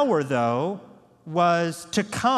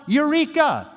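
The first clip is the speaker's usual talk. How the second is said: high, loud triumphant cry; mock eureka; 10 semitones higher, 5 dB louder than usual. Preacher mimicking disciples' discovery, mock triumphant. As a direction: shout it like a discovery. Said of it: "they get super excited".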